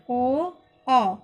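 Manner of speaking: ओ and औ each stretched out separately; long drawn-out vowels. Shown as a demonstration. Teacher redoing two long vowels after a slip, both drawn out. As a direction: hold ओ, then औ, for extra length. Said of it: "लंबा खींचकर बोलते हैं".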